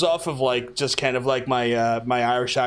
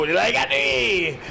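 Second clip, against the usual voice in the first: high drawn-out mock call; Belfast catchphrase; 8 semitones higher, much slower than usual. Shown as a demonstration. Streamer showing viewers his local catchphrase, drawn-out high call. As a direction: stretch it out high, at half speed.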